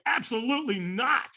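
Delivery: high-pitched, adamant refusal; indignant retold no; emphatic refusal. Acted refusal to walk.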